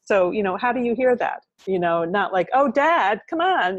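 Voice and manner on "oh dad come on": high, louder protest at dad; oh come on, dad; exasperated protest. Pretend. Daughter protesting her father's put-down, high exasperated.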